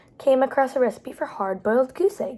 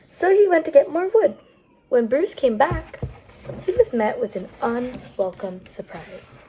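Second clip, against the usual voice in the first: lilting storytime read with a suspenseful end; picture-book narration; reading to children. A narrator's reading. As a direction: lead the kids toward the surprise. Reads a picture book aloud.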